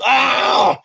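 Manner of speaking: a short played-up cry after the slap; mock yelp.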